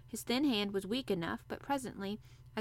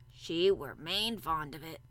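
put-on old Yorkshire gardener; 4 semitones lower, slower than usual. A narrator's reading.

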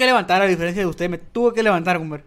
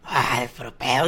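ordinary talk

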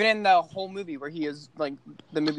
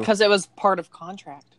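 dry sarcastic tone, air quotes; 3 semitones higher, 4 dB louder than usual. Real, not acted. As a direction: say it with heavy sarcasm. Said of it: "I emphasized the sarcasm".

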